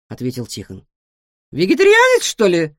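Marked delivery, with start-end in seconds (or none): 1.5-2.8 high, loud astonished gasp; be shocked he might not eat meat; gasped surprise. A narrator's reading. Guinea pig gasping at the cat's answer. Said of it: "ахнула свинка".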